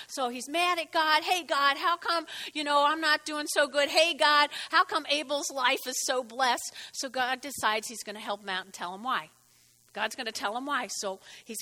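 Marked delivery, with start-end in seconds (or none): 1.2-6.7 mock pleading complaint, a bit louder; half-hearted whiny plea to God; lightly acted jealous brother; Cain complaining to God.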